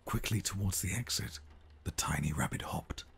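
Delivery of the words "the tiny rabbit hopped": hushed bedtime story read; whispered storytelling. Acted. Storyteller whispering a bedtime tale to the baby.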